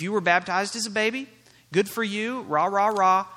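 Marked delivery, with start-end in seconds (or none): 1.7-3.3 loud, dismissive mock cheer. Preacher dismissing baptism as a baby, mock cheering. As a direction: cheer it on sarcastically, raised voice.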